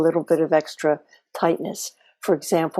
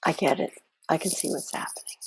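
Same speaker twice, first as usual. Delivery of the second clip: soft, quiet curiosity, almost breathed; curious, interested tone; 7 dB quieter, faster than usual. Shown as a demonstration. Teacher demonstrating the inner naming voice, soft and curious. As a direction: calmly acknowledge it, gently interested. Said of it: "in that curious, interested tone of voice".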